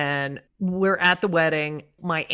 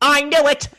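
mother's gotcha cry; 9 semitones higher, 7 dB louder than usual. Retold or imitated. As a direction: crow it like a mother who's caught you out. Mother catching her lie.

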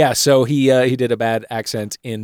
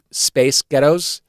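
Scottish accent trick; much slower than usual. Shown as a demonstration. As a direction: Space Ghettos slowly in American, passing for Scottish. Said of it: "a girl group's name in a Scottish accent, say".

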